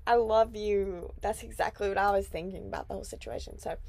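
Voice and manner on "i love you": high squeaky "I love you"; mock sweet voice. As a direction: gush it in a high cartoon voice. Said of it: "And then I was like".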